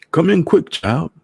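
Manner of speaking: put-on high, loud old Trinidadian voice; an old man from Trinidad hurrying her in. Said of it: "he said".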